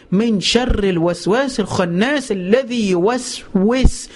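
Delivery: slow, stretched recitation of الوسواس and يوسوس; drawn-out recitation. Shown as a demonstration. Preacher recites the verse to show the repeating sounds, slowly. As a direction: draw out يوسوس so each syllable repeats. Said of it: "شوف الكلمة".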